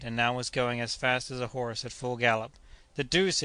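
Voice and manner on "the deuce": higher startled oath; Kennedy blurts it as the shot fails; exclaimed. Acted. Kennedy exclaiming in mild surprise. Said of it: "ejaculated Kennedy".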